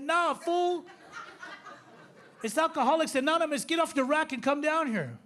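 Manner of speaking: impatient cholo ordering someone up. Retold or imitated. Cholo correcting a sleepy inmate in jail, loud and pushy. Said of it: "this cholo came walking through".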